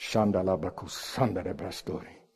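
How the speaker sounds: mock low, soft, murmured gibberish. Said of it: "pray two hours in other tongues".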